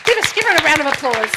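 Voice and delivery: rally the room to clap for her; loud call to the room. Real, not acted. Coach to workshop group, calling loudly for applause.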